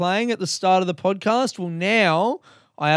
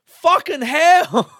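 mock cynical voice; 11 semitones higher, 6 dB louder than usual. Quoted cynical inner voice.

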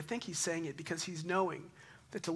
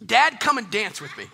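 laughing invite; 5 semitones higher, 13 dB louder than usual. Retold or imitated. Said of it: "she said".

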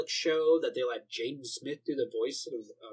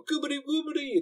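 silly gibberish; 12 semitones higher than usual. Retold or imitated. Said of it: "mimicking silly dub gibberish".

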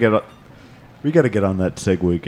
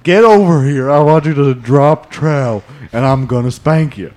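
demanding customer voice; pushy customer voice, hint of anger; angry soccer mom voice; 4 semitones higher, 4 dB louder than usual. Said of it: "That was your angry soccer mom voice".

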